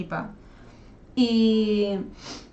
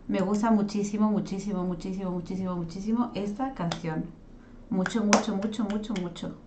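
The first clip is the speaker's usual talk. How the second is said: softening gush; 2 semitones lower, 6 dB quieter than usual. Real, not acted. Gushing over the song, fading.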